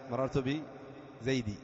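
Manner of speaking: بزيدي drawn out slowly, ending on a long ee; slow dialect-style بزيدي with a held final vowel; pausal long i. Shown as a demonstration. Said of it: "وإذا كان مجرورا".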